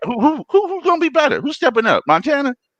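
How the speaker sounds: very high, animated, swooping put-on male voice. Debating who will be better, in a high-pitched black man voice. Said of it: "I got my high pitched black man voice going".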